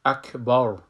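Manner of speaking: اکبر ending on a full rounded ra; full final ra. Shown as a demonstration. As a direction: end اکبر with a full mouth.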